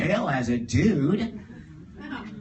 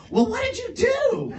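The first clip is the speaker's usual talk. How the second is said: high, laughing mock disbelief; laughing question. Friends in the car asking what he did, laughing.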